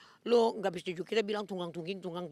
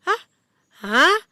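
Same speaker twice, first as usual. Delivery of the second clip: loud, high stunned hah, like a fool; dumbfounded hah; 8 semitones higher, 14 dB louder than usual. Retold or imitated. Acting out her foolish-looking shock, loud stunned hah. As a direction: gape out each hah like someone dumbstruck. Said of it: "kayak orang bodoh-bodoh".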